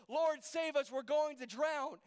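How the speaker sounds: acted cry for rescue, pitched high; desperate plea. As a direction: beg to be saved from drowning. Acting scared disciples begging rescue.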